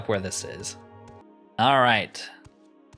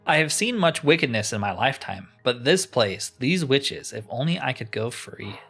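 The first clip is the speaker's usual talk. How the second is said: lightly acted weary witness, fading at the end; earnest game-dialogue lament; lamenting captive.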